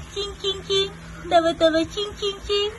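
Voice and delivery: high, light chanting syllables. Real, not acted. Parent coaxing baby to laugh, high playful chant. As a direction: chime it high to get a giggle.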